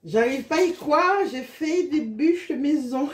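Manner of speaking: thrilled it actually worked; excited. Real, not acted. Proud of homemade yule logs.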